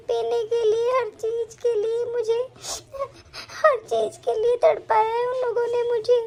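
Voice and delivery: tearful plea to her late mother; crying to mother. Acted. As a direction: let the tears break through the words. Bride cries to absent mother. (रोते हुए माँ से बात)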